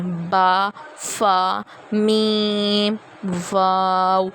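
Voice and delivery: با فا میم واو with lips closing; lip letters. Shown as a demonstration. Teacher showing lip letters to students. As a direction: show the lips on each letter. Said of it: "وہ یہ ہیں".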